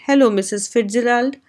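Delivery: usual speaking voice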